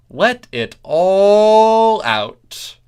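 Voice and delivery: all stretched long, very slow and loud; dragged-out all. Shown as a demonstration. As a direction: drawl out the word all. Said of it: "The dragging out of the all is my own".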